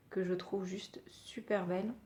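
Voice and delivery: breathy whisper, no voice at all; whispered aside. Real, not acted. Vlogger admiring her polish, whispering. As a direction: let the praise slip out as a whisper. Aside about beetle-shell colour.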